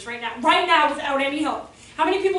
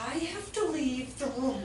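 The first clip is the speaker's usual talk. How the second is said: slow, tightly held anger, imitated; mad teacher; 6 dB quieter, slower than usual. Fed-up teacher to her colleague, restrained mad. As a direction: mimic someone too mad to stay. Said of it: "she was so mad".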